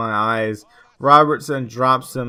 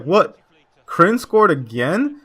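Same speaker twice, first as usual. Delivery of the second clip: mock amazement; 5 semitones higher, 3 dB louder, slower than usual. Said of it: "I was like".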